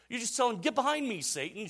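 high, loud mock command; instructing pastor. Pastor tells his wife how to handle Satan, emphatic mock command. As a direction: rebuke the devil in comic earnest. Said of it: "And the pastor goes".

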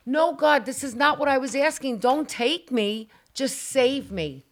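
loud plea that slows down at the end; beg, then drag out don't take me; frightened prayer while flying through the sky; pleading with God. Retold or imitated. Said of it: "And I went".

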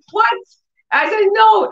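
high startled "no"; mock refusal. Mother refusing son's video, high startled "no". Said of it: "I was looking like".

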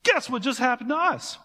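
hammed-up eager announcement; breathless excitement. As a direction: burst through the door with big news. Disciples bursting in with news.

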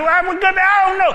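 high, loud pleading; worn-out husband begging his wife, loud and high; panicked protest. Acted. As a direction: cry out that it's too much.

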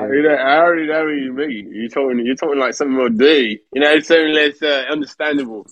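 lightly put-on rough English accent; British accent impression. Showing the others what rough English talk sounds like, imitated British accent. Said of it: "That sounds like Anthony Joshua a bit".

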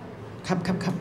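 very soft, slow yessir; meek compliance. Acted. Rider obeying a policeman, meek and hushed. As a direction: give in almost under your breath.

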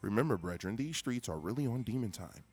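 hard sell ad; commercial voice. Pretend. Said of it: "commercial voice".

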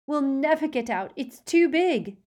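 high, loud panicked cry; Hermione screaming. A narrator's reading. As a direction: cry out in panic, drawing out the last words. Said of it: "Hermione screamed".

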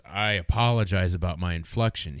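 deadpan, measured mimicry of an odd inflection; Forrest Gump. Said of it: "guy who talked like Forrest Gump".

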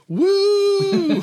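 high, loud party whoop; retold gleeful "Woo!"; excited whoop. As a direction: cheer like you're thrilled to go. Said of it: "And you're like".

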